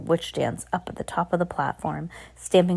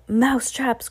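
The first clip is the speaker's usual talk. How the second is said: excited cry; 6 semitones higher than usual. Acted. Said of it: "cried the witches".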